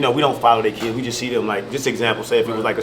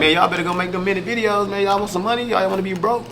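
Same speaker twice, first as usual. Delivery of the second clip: high-pitched barking orders; drill sergeant; 9 semitones higher than usual. Retold or imitated. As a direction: drill sergeant pushing his recruits. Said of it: "So I sound like a drill sergeant sometimes".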